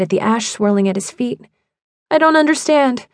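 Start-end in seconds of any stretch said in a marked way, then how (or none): 2.1-3.1 higher, upset bewilderment; distressed confusion. A narrator's reading. Horrified at the swirling ash, higher distressed confusion. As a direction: plead in a raised pitch. Horrified at what just happened.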